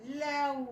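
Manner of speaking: لو blended into one long syllable; long, sustained لو; drawn-out syllable. Shown as a demonstration. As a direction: stretch لو out as one sound. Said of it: "أنطقهم كده مع بعض".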